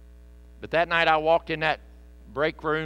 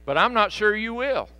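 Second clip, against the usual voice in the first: pleading father; 7 semitones higher, 3 dB louder than usual. Retold or imitated. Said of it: "And the guy says".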